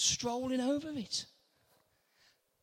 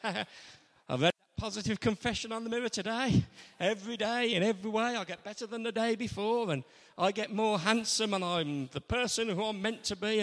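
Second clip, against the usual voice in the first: smug self-help Peter; faster than usual. Retold or imitated. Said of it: "Peter smiling at James in the boat and saying".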